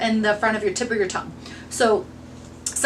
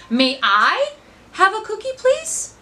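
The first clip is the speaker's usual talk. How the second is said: "have" jumps high, "please" rises higher; stress on have; 9 semitones higher, slower than usual. Shown as a demonstration. Teacher demonstrating meaning two, stressing "have". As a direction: punch "have" and climb to "please". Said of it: "that's meaning number two".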